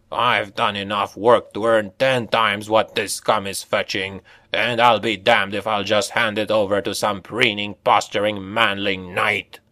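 dwarf voice, mild howl; a hint of a howling dwarf. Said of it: "to howl into the vampire's face".

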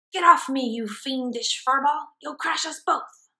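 gloating cartoon villain, lightly voiced; villain hamster. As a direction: sneer at the cat from the secret lair.

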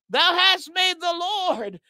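"Lord" shouted out big and slow, like it's written in capitals; stress on LORD. Real, not acted. Preacher to congregation, shouting "Lord" in all caps. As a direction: lean hard on "Lord" and stretch the line. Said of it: "L O R D, all caps".

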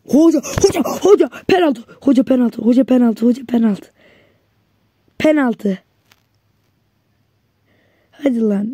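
shouting penalty claims at the ref; penalty appeal. Real, not acted. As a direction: demand the penalty, pleading. Demanding penalty from referee.

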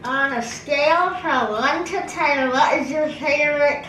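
reading clearly. Shown as a demonstration. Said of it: "say it clearly enough".

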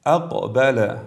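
short echoing bounce on the ق of اقبل; brief qalqala. Shown as a demonstration. Tajweed teacher models اقبل for viewers, brief bounce on ق. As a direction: recite اقبل slowly with a quick release after ق, no full vowel.

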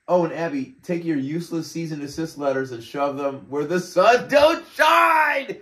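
rising to a shrill shout on shine; mock hostile reading. Reading the company's rude reply, ending in a shout. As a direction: read it like the owner telling Abby off.

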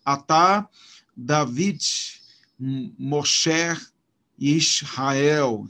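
"Atá, David, Moshe, Israel" each stressed on the last syllable; teacher's demo of a-TÁ, da-VID, mo-SHE, isra-EL; stress on final syllable. Shown as a demonstration. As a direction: separate the words, landing on each final syllable. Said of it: "é a última da palavra".

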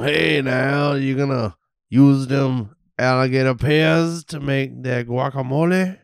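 put-on slow drawled Cajun accent. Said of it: "Do you like my Cajun accent?".

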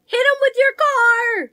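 high, slow, emphatic punchline; triumphant answer. Acted. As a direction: land the answer like a victory. Solving the saying triumphantly.

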